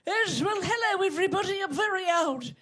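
put-on high old lady voice. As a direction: wobble it out like a granny. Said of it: "this is an old lady".

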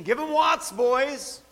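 a preacher mimicking a war cry; battle cry. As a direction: yell it across a battlefield.

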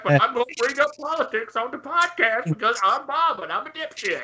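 lightly voiced dumb host; mocking Bob. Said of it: "Bob's the dipshit that's like".

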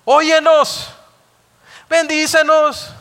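high, loud, pleading cry to God; mock tearful cry of Israelites weeping at the altar; imitated wailing plea. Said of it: "llegaban ahí al altar a llorar".

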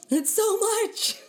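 slow, stretched mid-yawn. Real, not acted. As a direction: talk through a big yawn. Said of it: "Sorry, I'm yawning".

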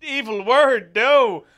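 hammed-up horrified gasp, high and loud; shocked American viewer. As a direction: play a scandalised American, slow and over the top. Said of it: "people in, in America watching this going".

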